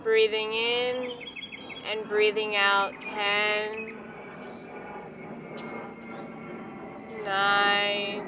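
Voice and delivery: unhurried, soothing hypnotic pacing; guided meditation. Acted. Leads a guided relaxation.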